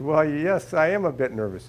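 sheepish laughing confession to the officer; sheepish admission. Retold or imitated. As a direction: own up sheepishly with a chuckle. Admitting nerves to passport officer.

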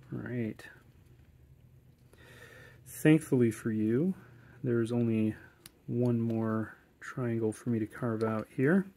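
normal talking voice

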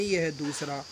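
ordinary talk, nothing marked

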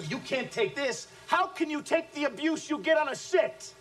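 contemptuous tirade at weak salesmen; scornful shout. Acted. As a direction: taunt them at full pitch. Boss mocks salesmen.

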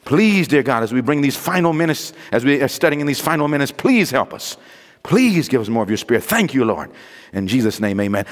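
low, earnest pleading prayer. Real, not acted. Prayer during the sermon.

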